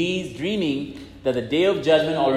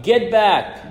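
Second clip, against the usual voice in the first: calling aloud; 5 semitones higher, 4 dB louder than usual. Acted. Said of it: "I heard a voice calling aloud".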